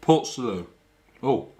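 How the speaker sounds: talking with a mouth full; words round a bite of cheese. Real, not acted. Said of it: "I said I wasn't gonna talk with my mouth full".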